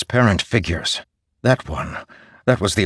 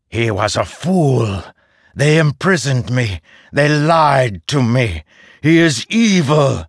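bitter; 5 semitones higher than usual. Acted. Mishram's bitter accusation.

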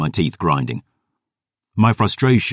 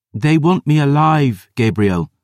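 put-on higher, louder insistent girl; girl insisting to her guardian, higher and louder; 9 semitones higher, 4 dB louder than usual. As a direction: plead your case firmly, like a stubborn girl. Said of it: "Dior insisted".

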